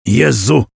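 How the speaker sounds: groan. Acted. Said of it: "jęknął Przemysł".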